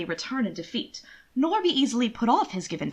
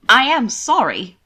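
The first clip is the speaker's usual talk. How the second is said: careful and polite; 2 semitones higher, 10 dB louder, slower than usual. A narrator's reading. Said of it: "the words careful and polite".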